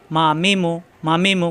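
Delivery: মা মি মু as three brief syllables; quick even syllables in মা মি মু; short, no delay. Shown as a demonstration. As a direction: say মা মি মু without lingering on any vowel. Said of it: "কোনো দেরি করা যাবে না এখানে".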